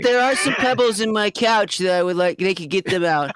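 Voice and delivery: high, whiny wait then settling; petulant villain. Acted. General demands pebbles removed from couch, petulant. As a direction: fuss like a spoiled tyrant.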